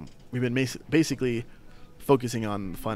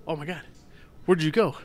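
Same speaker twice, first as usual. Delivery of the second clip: mock amazement in a higher voice; feigned astonishment; 6 semitones higher, 3 dB louder than usual. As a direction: act stunned by a sudden disappearance. Retold kid fooling invisible hero.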